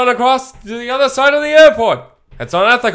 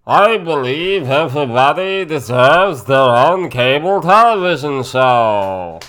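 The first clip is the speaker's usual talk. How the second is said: Bernie Sanders impression; 6 semitones lower, slower than usual. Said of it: "Now do Bernie Sanders".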